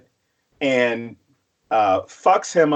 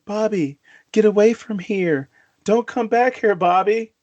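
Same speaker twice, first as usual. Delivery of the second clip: mock ghost mother warning; 5 semitones higher than usual. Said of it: "soon as I hear that voice saying".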